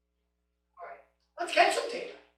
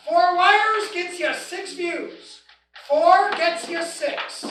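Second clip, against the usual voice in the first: four wires gets you six, each word slow and weighted; slow, drilled teaching emphasis; slow emphatic recap; 4 semitones higher, 4 dB louder, much slower than usual. Shown as a demonstration. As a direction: spell the rule out slowly for the class. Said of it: "And if you remember, all y'all".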